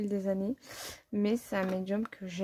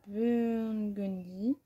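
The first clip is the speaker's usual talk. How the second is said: clumsy English accent; much slower than usual. Real, not acted. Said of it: "vous voyez en même temps mon accent pitoyable".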